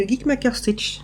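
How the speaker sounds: "Geek Maker Stitch" rushed and slurred together; rushed name. Shown as a demonstration. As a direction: gabble "Geek Maker Stitch" too fast. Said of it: "je le dis trop vite, je crois, et je, j'écorche le nom".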